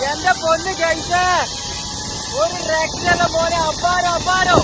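high, loud, breathless thrill; thrilled shouting. Real, not acted. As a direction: shout it out mid-ride. Shouting from the zipline.

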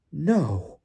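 high, falling exclamation; high, incredulous reaction; Bagman disbelieving. A narrator's reading. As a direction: let it out in amazed disbelief. Bagman grasps the accusation, disbelieves.

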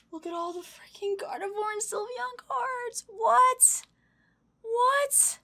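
high, incredulous excitement; real high-pitched astonishment; amazed squeal. Real, not acted. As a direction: squeal in disbelief at the cards. Stunned by rare gift cards.

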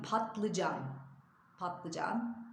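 "patlıcan" with t before l; careful "patlıcan", said twice; correct pronunciation. Shown as a demonstration. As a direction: say "patlıcan" as pat-lı-can. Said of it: "padılcan değil".

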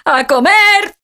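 aguda y más fuerte, llamando a todos; la abuela llama a la mesa; llamada a comer. Acted. (llamada alegre)

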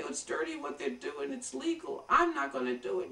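hushed mock excuse, brushing it off; mock prissy excuse. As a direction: parody someone too proud to play dirty. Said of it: "you can't just say".

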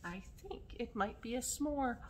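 ordinary delivery

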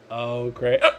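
words broken by hiccups; hiccuping. Real, not acted. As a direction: cut off by a hiccup. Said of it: "I just hiccuped twice".

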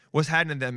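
"happening" said as HAN-nin; slang pronunciation. Shown as a demonstration. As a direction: slur "happening" down to two syllables, HAN-nin. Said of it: "But H A N N I N".

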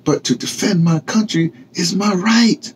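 high, earnest protest; lightly voiced Renee; Renee's voice. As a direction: insist on your right, wounded. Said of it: "whispered Renee".

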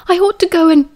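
rising to go after her; heated. A narrator's reading. Sirius about to storm off.

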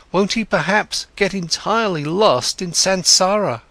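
worried father. Acted. Siddhartha pleads his worries.

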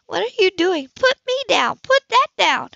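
high, loud protesting yell; panicked high shout. Acted. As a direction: scream to be put down. Heroine thrown over his shoulder.

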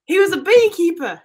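put-on Aussie detective deduction; Australian detective solving it; Australian accent. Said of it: "time in that Australian accent".

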